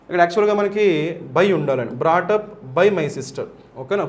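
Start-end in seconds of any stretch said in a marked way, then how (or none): 2.0-3.4 slow and a little softer; slow reading. Shown as a demonstration. Teacher reads the corrected sentence slowly to students. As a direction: read it out word by word.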